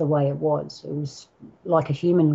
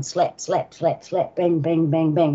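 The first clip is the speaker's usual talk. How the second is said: rhythmic run of evenly beaten sound words; retold slap-and-bang rhythm; imitating rapid impacts; slower than usual. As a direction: tap out each hit in quick succession. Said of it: "This is how fast it was going".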